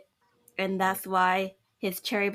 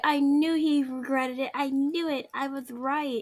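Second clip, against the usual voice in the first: slightly raised, self-satisfied gloating; mock boasting; 4 semitones higher than usual. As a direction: boast as if proved right all along. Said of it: "mentally boasting about being right".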